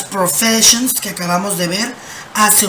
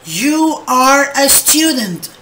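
even slower, clear repetition; 3 semitones higher, much slower than usual. Shown as a demonstration. Teacher repeating the example for students, very slowly. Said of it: "Me dice".

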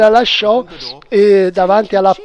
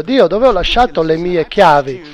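earnest prayer. Acted. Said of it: "mi sento stupido alle volte a chiedere".

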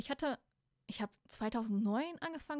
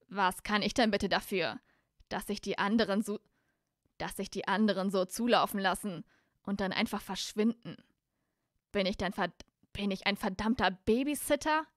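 retorting Malfoy; 6 dB louder than usual. Acted. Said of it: "konterte Malfoy".

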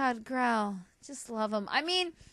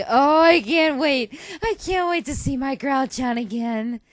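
excited squeal; 5 dB louder than usual. Real, not acted. Fangirl gushing over Growl.

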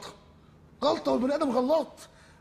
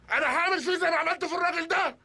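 threatening shout; 3 semitones higher than usual. Acted. Robber threatening hostages.

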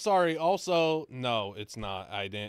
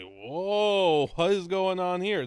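surprised; 7 semitones higher, 7 dB louder, slower than usual. Retold or imitated. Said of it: "got you guys like".

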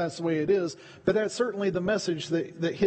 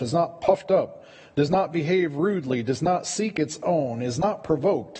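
measured, deliberate reading of the verses; steady, emphatic Bible reading; scripture reading. Acted. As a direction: read it out as holy text from the pulpit.

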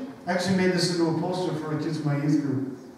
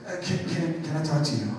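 nervous newbie; 2 semitones lower, 8 dB quieter than usual. Retold or imitated. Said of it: "is super nervous".

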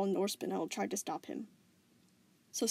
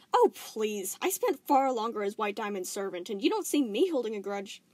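lightly voiced, airy brush-off; dismissive Volleyball; 6 dB louder than usual. Gem shrugging off Spinel's grudge, dismissive. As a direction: wave away her complaint.

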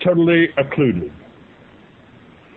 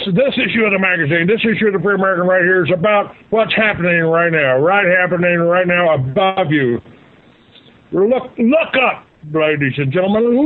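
carnival barker; 3 semitones higher than usual. Retold or imitated. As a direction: hawk it like a fairground barker calling the crowd. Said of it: "I was like a carnival barker".

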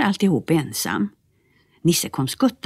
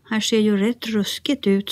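apologetic; 6 semitones higher than usual. Acted. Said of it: "sa Nisse urskuldande".

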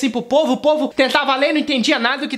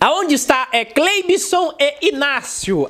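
pastor announcing slowly; 2 semitones higher, much slower than usual. Retold or imitated. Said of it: "pastor reading again".

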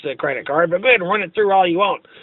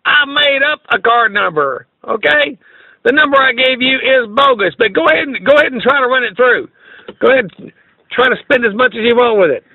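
taunting; 4 semitones higher than usual. Real, not acted. Taunting the scammer, laughing.

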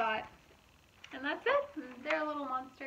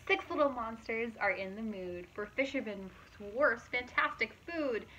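lively, louder storybook narration; reading to children; 4 dB louder than usual. A narrator's reading. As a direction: read it out brightly to a young audience. Reading picture book aloud.

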